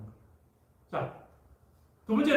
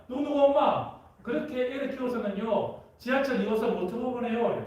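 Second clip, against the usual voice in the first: gossipy neighbor mom; 5 semitones higher than usual. Retold or imitated. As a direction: nag like the mom next door. Neighbor mom's gossip quoted. (옆집 아줌마 흉내)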